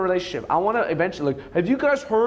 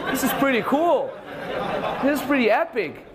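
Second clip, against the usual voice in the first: put-on higher, giggling girlfriend voice; laughing girlfriend; 6 semitones higher than usual. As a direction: gush about it through laughter. Girlfriend impressed, quoted laughing.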